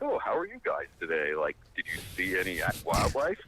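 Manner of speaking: mock a carefree hiker couple; a light send-up of an outdoorsy couple; cheery yuppie. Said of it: "yuppie warrior couple".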